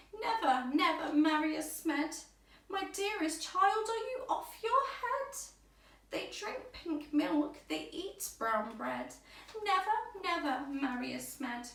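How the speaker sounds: put-on high, loud, aghast old lady; shocked grandmother. A narrator's reading. Grandmother aghast at the wedding news, high and loud. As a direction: clutch your pearls and forbid it. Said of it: "what do you think their grandparents said".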